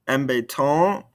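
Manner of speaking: "Embêtant" rising on an open nasal vowel; no T at the end of "Embêtant"; silent ending consonants. Shown as a demonstration. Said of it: "these ending consonants".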